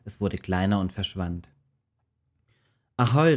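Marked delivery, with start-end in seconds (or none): 3.0-3.3 loud, high call across the sea; calling out Ahoi. Acted. Jona calls out happily from the ship, loud and high. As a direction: hail the sea joyfully. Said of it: "rief Jona".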